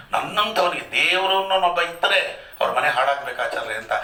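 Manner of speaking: mock grieving complaint. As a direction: imitate a mourner's self-pitying cry. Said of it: "ಹಿಂಗೆಲ್ಲ ಮಾತಾಡ್ತಾರೆ ಜನ".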